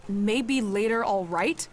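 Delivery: indignant parroting of a brush-off; mocking echo. Woman echoes her lover's brush-off, mocking. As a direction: throw the words back, rising at the end. Mocks his brush-off back at him.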